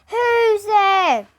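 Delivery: high, loud mouse voice; a barely sleepy squeak; high mouse voice only a hint sleepy. Acted. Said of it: "he asked sleepily".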